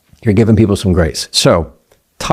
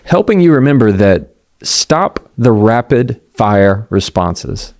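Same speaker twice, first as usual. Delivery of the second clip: ordinary talk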